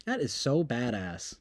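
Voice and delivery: low, soft flat so badass; deadpan. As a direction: say it dry and unimpressed. Repeated flatly.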